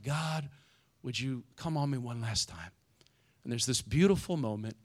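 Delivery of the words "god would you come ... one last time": softer, understated prayer; retold plea. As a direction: lightly voice a quiet last plea to God. Samson's last prayer, retold.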